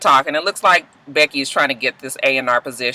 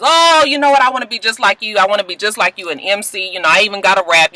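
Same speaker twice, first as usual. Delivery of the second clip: high, eager little fan voice; excited kid; 6 semitones higher than usual. Retold or imitated. Kid gushing to Lucius, high and eager. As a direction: gush like a starstruck kid. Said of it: "one of the kids is excited".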